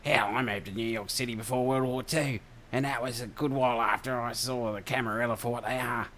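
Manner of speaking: put-on broad Aussie Ocker accent; rough Australian Ocker accent. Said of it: "the old Ocker voice".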